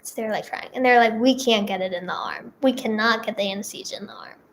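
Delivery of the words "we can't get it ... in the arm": half-whispered bad news; hushed doctor. Doctors quietly tell each other the needle failed, whispered. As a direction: let it drop to a whisper, like staff conferring.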